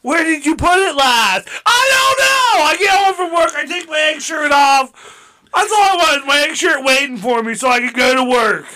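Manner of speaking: frantic yelling. Acted. Acting as stressed egg worker.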